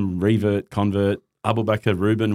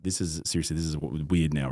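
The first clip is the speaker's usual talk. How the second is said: uneasy wife; 6 semitones lower, 8 dB quieter than usual. Retold or imitated. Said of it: "my wife's starting to go".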